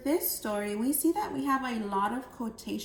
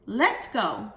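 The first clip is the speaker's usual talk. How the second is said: louder, keen; eager; 6 dB louder than usual. Shown as a demonstration. Jill eager to leave for the beach, excited. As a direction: jump up ready to go. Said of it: "where I change my voice".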